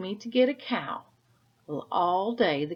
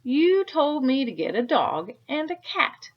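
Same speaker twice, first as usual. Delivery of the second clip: loud, high-pitched tirade building to a frantic peak; storyteller acting a man at wits' end; angry Peter; 7 semitones higher, 9 dB louder than usual. A narrator's reading. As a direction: rant with mocking animal noises, getting more exasperated. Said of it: "Now Peter was angry".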